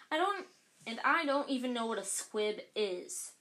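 Harry blurting out his innocence; protesting. Acted.

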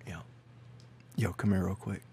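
shady dealer in a put-on Scottish accent; mock Scottish accent. The speaker pushing a beer in his Scottish accent. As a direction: beckon them over in a Scottish gangster accent. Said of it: "I've never heard you do this accent".

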